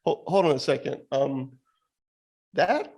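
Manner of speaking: rising disbelief, high pitched; can't believe what you hear; incredulous. Retold or imitated. Mock incredulous questioning.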